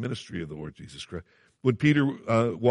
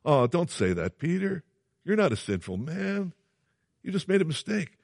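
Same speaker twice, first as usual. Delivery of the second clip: sugary comforter; 7 semitones higher than usual. Retold or imitated. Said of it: "might be interpreted as a Christian response".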